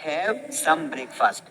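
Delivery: very slow, drawn out model sentence. Shown as a demonstration. Teacher modelling the sentence very slowly for learners. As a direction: stretch every syllable slowly. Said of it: "इस तरीके से".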